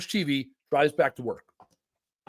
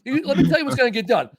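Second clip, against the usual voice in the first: louder, higher, fast and pumped; hyped up; 6 semitones higher, 7 dB louder than usual. Real, not acted. Pumped, fast and loud, selling the host on his lazy weekend. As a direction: sell it like a party announcement.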